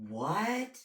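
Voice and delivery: mock shocked gasp, the second part slow; imitating a guilty man's feigned surprise; fake surprise. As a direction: play-act being shocked, hammed up. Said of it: "just acting like a, a fool".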